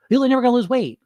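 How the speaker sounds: mock the nagging voice in your head; negative inner voice. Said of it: "negative voice in your head".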